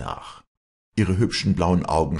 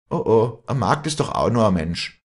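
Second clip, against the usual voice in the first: raised, louder protest, shaken; acted upset, voice lifted; trembling with upset; 7 semitones higher, 7 dB louder than usual. A narrator's reading. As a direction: protest in agitation, pitched high. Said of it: "am ganzen Leibe zitternd".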